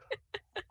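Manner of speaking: tiny, very high, soft voiced breaths; choked-up squeak. Sable is moved before the judges, tiny choked-up squeak. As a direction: squeak softly, overcome. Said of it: "you see a tear well in the corner".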